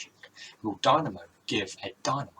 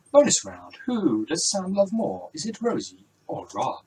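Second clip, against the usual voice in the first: quiz host announcement; 6 semitones higher, 5 dB louder than usual. Acted. Quiz host announces bonus round.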